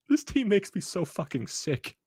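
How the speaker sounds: high, slow, pained complaint; disgusted wail. Real, not acted. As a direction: whine it out in real disgust. Fan disgusted with team.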